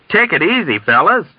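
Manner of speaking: high, friendly Texan reassurance; uneasy, good-natured calming; affable counsel. A narrator's reading. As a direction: soothe them affably but uncertainly. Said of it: "counseled affably with an uncertain grin".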